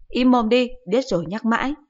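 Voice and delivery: high, loud irritated snap; a mother telling her son off; shrill-free loud mother scolding. Acted. Mother snaps.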